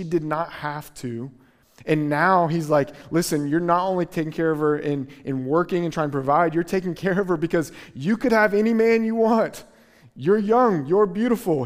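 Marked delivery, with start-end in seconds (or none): 3.1-11.6 a preacher playing Boaz, building from brisk to urgent; lightly voiced Boaz. Preacher voicing Boaz's praise.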